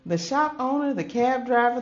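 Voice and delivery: name each guest with rising joy; excited list. A narrator's reading. Surprise at all the visitors.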